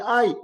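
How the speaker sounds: a brief demonstrated cry of pain; ordinary pained "ay". Shown as a demonstration. Doctor showing a normal pain response, short mock "ay". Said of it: "En vez de decir".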